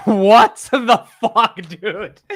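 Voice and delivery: cracking up at what you just heard; stunned laughing outburst; laughing disbelief. Real, not acted. Hears odd dictionary pronunciation.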